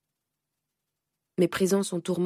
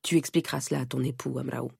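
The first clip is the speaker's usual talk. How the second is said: lower, clipped conclusion; curt and dry; 4 semitones lower than usual. Acted. Aunt dismissing the mother, lower and dry. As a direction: cut the matter off. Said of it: "conclut sèchement Gokonene".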